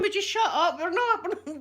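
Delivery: laughing as you bark back at the chatty wife; husband snapping. Retold or imitated. Husband telling chatty wife to shut up, mock annoyed. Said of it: "My husband's going".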